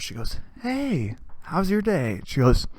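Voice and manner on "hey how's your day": soft, higher-pitched hushed greeting; imitated whisper. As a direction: lean in quietly, imitating the aunt. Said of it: "she whispers".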